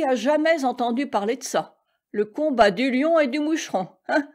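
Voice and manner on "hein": ordinary delivery, nothing marked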